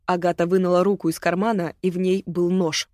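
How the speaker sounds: ordinary delivery, nothing marked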